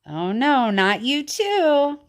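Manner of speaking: slow, drawn-out mock despair; mock dismay. Teacher teasing the child listeners, mock dismay. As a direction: groan it out playfully.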